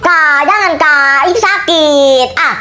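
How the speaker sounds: put-on high, drawn-out child's plea; frightened pleading. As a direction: beg your sibling to stop. Child begs not to be shot.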